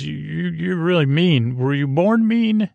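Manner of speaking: a hint of a playful wildling poking fun; mock Tormund teasing. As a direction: tease him with a lightly put-on voice.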